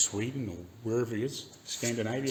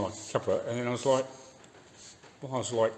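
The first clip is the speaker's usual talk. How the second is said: ordinary talk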